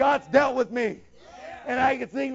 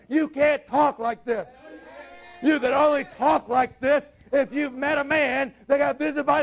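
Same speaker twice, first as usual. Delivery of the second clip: fervent preaching. Real, not acted. Preacher pressing his desire on the congregation, fervent. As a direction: preach it out with full conviction. Preacher builds to full force.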